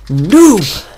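loud, high jeer; drawn-out teasing yell; taunting shout. Real, not acted. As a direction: yell it to mock your friend. Mocking friend for falling.

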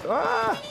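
sudden high-pitched "ah"; high drawn-out cry. Real, not acted. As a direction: let out a high held yelp. Sudden high cry after bragging.

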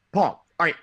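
Kevin impression. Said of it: "I have a Kevin impression".

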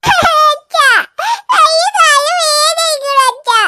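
put-on slow, wailing child calling dad; crying child. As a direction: stretch it out in tearful complaint. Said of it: "കരയണ്ട അമ്മോ". (വേദന കൊണ്ട് അച്ഛനെ വിളിച്ച് കരയുന്ന കുട്ടി)

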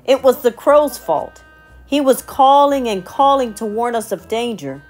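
high, loud hurried excuse; excited monkey. Acted. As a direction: blurt it out frantically. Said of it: "said the monkey".

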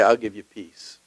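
God's promise. Retold or imitated. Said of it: "God will say".

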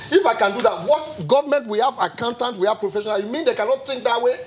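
real agitated argument, pitch climbing. Real, not acted. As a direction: let concern push your voice up. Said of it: "Sorry, I'm raising my voice".

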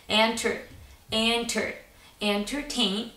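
leaning on "enter" to show where the stress sits; stressed syllable demo. Shown as a demonstration. Teacher to class, showing the stress on "entertain". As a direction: press the "enter" part of "entertain" clearly. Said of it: "mind the stress that I'm putting on".

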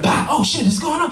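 high-pitched frantic reaction to the starting gun; mock panic. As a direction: sound the alarm in comic excitement.

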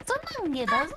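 high, swooping mascot farewell; Mario. Acted. Copying a friend's Mario line, swooping high voice. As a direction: imitate the game hero's sing-out goodbye. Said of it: "show me your Mario".

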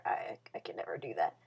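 low unvoiced whisper; whispered aside. Real, not acted. Vlogger whispering a denial to her viewers. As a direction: breathe it under your breath.

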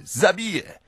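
high, loud warning cry; crowd crying out. A narrator's reading. Onlookers crying that he will kill her, shouting. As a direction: yell it like a startled bystander. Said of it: "wołają wszyscy".

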